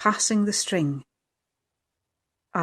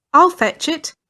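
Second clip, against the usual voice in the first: much higher, loud eager shout; a boy keen to run for the bag; eager child calling; 8 semitones higher, 7 dB louder than usual. A narrator's reading. John Ross offers to fetch the bag, loud eager call. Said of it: "John Ross called".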